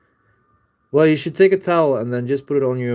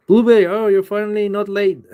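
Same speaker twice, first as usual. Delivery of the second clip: high-pitched, delighted teasing greeting; mock surprise; 9 semitones higher, 4 dB louder than usual. Real, not acted. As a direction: greet a friend with playful, high-pitched amazement. Teasing greeting to a punctual arrival.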